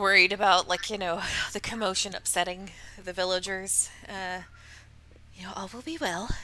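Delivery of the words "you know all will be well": breathy, anxious, fretful half-whisper under the breath. Storyteller voicing a woman as she trundles off, breathy half-whisper. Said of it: "She kind of whispers breathily".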